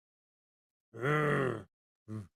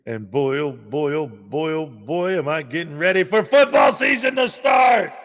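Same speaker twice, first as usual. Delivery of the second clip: gleeful shout; 4 semitones lower than usual. Real, not acted. Excited build-up to football season.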